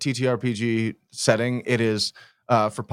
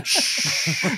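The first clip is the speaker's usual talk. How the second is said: shushing; 5 semitones higher than usual. Pretend. Playful hush after whisper.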